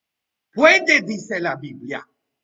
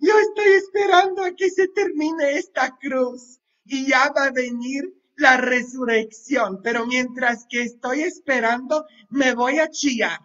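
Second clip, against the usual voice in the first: imitando al quejoso; 5 semitones higher than usual. Retold or imitated. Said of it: "No que".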